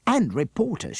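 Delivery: put-on high, eager child shout; excited shout. A narrator's reading. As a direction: point it out with glee. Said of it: "shouted Akbar".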